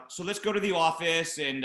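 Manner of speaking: imitated breezy small talk; light, chatty mimicry, slightly lifted pitch; chitty-chatty. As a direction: act casual, as if nothing happened. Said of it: "like, chitty chatty".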